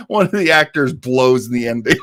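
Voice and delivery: cracking up while telling the blooper; laughing. Real, not acted. Host to listeners, laughing about the actor's flub.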